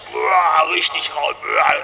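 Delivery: imitated stag roar. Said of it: "gewaltigeren Schreck".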